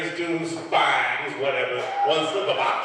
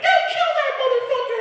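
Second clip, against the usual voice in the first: very high, loud mock-panicked crowd voice; fans' warning; 6 dB louder than usual. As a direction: squeal it like scared white fans, laughing. White fans warn him, laughing.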